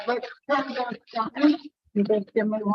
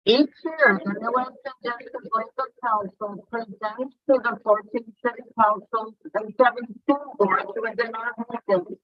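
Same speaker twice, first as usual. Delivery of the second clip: muffled. Real, not acted. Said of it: "you're coming off very muffled".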